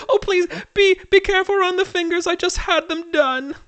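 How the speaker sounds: high, fussy society lady; Lady Cosmonauta. Acted. Lady protecting her freshly done fingers, high fussy voice. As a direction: fuss theatrically in a very high voice. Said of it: "It's Lady Cosmonauta".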